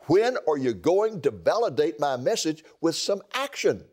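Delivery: pleading with God, rising to urgent questions; impassioned lament prayer. Acted. Preacher crying out to God over the nation, pleading. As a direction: cry out to the Lord like a prophet at the end of his rope.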